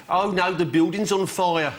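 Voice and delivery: slow flat Midlands deadpan with no alarm; dramaless Midlands accent. Shown as a demonstration. Panellist mocking the Midlands accent, slow and deadpan. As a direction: say it in Midlands, as if nothing were wrong. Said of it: "No sense of drama or emergency there".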